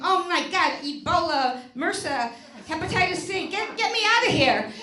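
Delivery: hammed-up panic, pitch and volume rising at the end; mock panicked scream. Comic retelling of lying on the bathroom floor, mock panicked scream. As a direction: act out a half-screamed freak-out. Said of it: "laying on the bathroom floor screaming".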